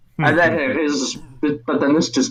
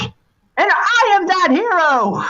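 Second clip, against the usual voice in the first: higher, slow solemn recital; boy reciting prophecy; 9 semitones higher than usual. Acted. Boy reciting his prophecy to the figure, solemn. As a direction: intone it like a grand oath.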